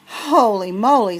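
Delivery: breathless. Acted. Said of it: "said Carla May breathlessly".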